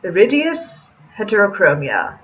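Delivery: Iridius heterochromia slowed down with a put-on foreign accent. Cafe owner explains the cat's eyes in his put-on accent. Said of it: "I'm sorry, I forgot my accent".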